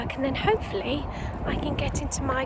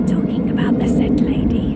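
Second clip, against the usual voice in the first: whispering; 9 dB louder than usual. Real, not acted. Whispering as the lady walks past.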